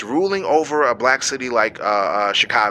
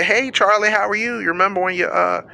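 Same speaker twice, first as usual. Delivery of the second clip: mock cheerful greeting. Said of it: "I'm gonna be smiling".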